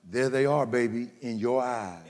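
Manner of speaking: low, smooth romancing; tender sweet talk. Retold or imitated. Husband finding the stars in his wife's eyes, smooth tender wooing. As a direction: woo her with the line, low and sweet.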